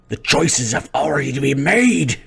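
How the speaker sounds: loud, high, fast villain proclamation; booming villain. Acted. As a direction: thunder the verdict. Villain figure declares loudly.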